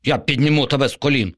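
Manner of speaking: fast, high zombie promise; a lightly voiced zombie assuring him; reassuring zombie. A narrator's reading. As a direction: rush the big promise like a con. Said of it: "запевнив зомбі".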